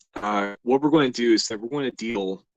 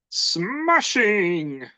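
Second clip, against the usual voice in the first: high, posh-sounding British cheer; British exclamation; 12 semitones higher, 7 dB louder than usual. Pretend. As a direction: chirp it like a delighted Brit. Imagined viewer exclaims in British voice.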